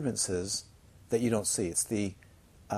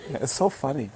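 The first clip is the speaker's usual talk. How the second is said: laughing; 2 semitones higher than usual. Real, not acted. Laughing over the memory.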